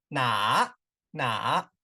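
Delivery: 哪 dipping low, then rising; third tone. Shown as a demonstration. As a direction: model 哪 with a down-and-up tone. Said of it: "third tone".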